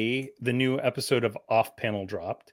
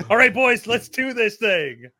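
hyped up; 7 semitones higher, 4 dB louder than usual. Pretend. Pumping up the bout.

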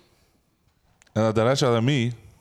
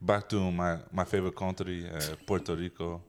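put-on Spanish-accented ballplayer; 3 semitones lower than usual. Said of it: "it just sound like your dad".

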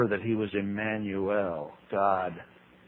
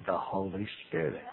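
sweet reply; 4 semitones lower, 9 dB quieter than usual. Retold or imitated. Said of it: "she smiles sweetly and says".

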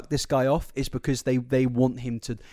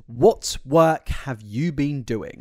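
slow mock boss; 2 semitones lower, much slower than usual. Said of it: "He just says".

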